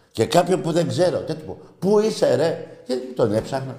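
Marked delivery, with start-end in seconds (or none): 1.8-2.7 high-pitched mock greeting; mock street hail. Host mimics greeting a total stranger, high mock hail. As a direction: imitate an over-familiar hail, pitched up.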